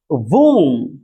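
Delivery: वोम with a short u; model word womb. Shown as a demonstration. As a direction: clip the vowel in वोम. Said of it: "वोम पढ़ते हैं". (वोम छोटे उ के साथ)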